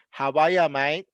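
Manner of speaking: Australian "How are ya, mate", R dropped; casual Australian greeting, rising on "mate"; Australian slang greeting. Shown as a demonstration. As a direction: run "are ya" together, Aussie style. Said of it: "you usually say".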